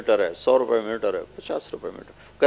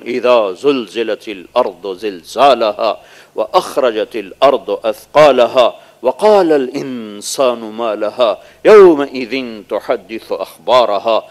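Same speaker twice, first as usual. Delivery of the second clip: slow chanted Arabic recitation; Quran recitation; 2 semitones lower, slower than usual. Acted. Preacher recites verses of the earthquake, slow chant. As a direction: intone each verse slowly.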